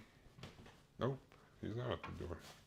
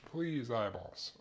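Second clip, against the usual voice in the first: teary from chopping onions; 3 semitones higher, much slower than usual. Real, not acted. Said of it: "My eyeballs".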